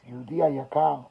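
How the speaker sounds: quiet, halting, mildly broken; softly choked-up retelling; barely able to get the words out; retold breakdown. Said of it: "just breaks down and could barely talk".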